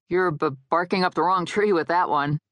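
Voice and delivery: stuck briefly on the B; halting, stuttered word of warning; stammering advice. Acted. Dead guy warns her off a man, stammering.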